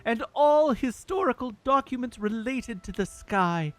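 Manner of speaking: lightly voiced noble Zora prince; Prince Sidon voice. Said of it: "I'll just try to do his voice normally".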